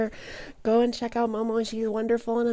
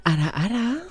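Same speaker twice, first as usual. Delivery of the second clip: teasing ara ara. Pretend. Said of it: "wanting these ara aras".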